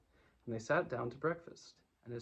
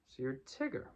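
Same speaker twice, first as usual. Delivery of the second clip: careless. Acted. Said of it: "in a careless sort of voice".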